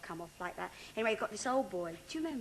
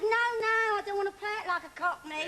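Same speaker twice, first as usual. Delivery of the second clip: mock protest; 10 semitones higher, 4 dB louder than usual. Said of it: "I said".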